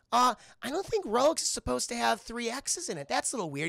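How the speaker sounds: politely puzzled, feeling out the problem; hesitant doubter. Retold or imitated. Olive questions the penguin's dodgy watches, hesitant and doubtful.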